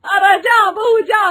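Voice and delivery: mother-in-law shooing off bride; shooing away. Acted. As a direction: shoo her off sharply.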